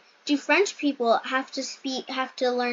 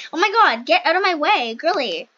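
mock rude rival; 3 semitones higher, 5 dB louder than usual. Mock rude rival pushing past.

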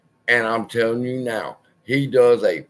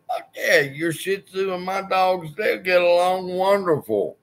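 eager agreement; 8 semitones higher than usual. Retold or imitated. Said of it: "And I said".

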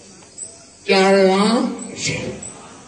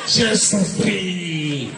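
drawn-out lament; 2 semitones lower, much slower than usual. Acted. Lamenting her suffering.

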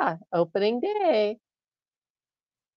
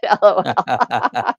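laughing L O L; 5 semitones lower, much slower than usual. Retold or imitated. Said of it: "Sonia said".

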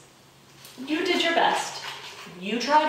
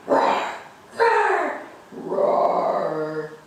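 dinosaur roars; much slower than usual. Acted. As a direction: play the dinosaurs roaring. Dinosaurs roar in story.

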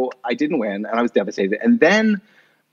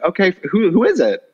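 put-on puzzled young self; 9 semitones higher than usual. Retelling answering the call.

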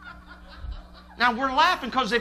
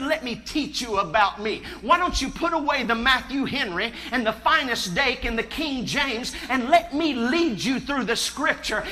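voice of God; 3 semitones higher, 6 dB louder than usual. Retold or imitated. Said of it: "And God said".

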